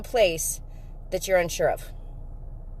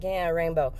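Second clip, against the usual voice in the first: lower, quieter, unimpressed mumble; 5 semitones lower, 4 dB quieter than usual. Retold or imitated. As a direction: grunt it, totally unimpressed. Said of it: "he was not impressed".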